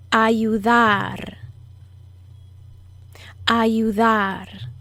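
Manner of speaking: Ayudar with a subtly lengthened final syllable; careful model of Ayudar, final syllable drawn out; subtle stress in Ayudar. Shown as a demonstration. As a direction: lean gently on the end of Ayudar. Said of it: "Notice where I put the subtle emphasis".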